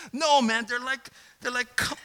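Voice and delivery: high, loud dismissive scoff; a hint of a doubting inner voice; voice of my flesh. Pastor voicing his doubting flesh, a loud scoff. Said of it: "but my flesh says".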